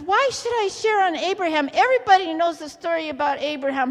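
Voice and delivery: quick, mildly protesting objection; retold protest. Preacher recalling objection to God's prompting, fast protest. Retelling own objection to God.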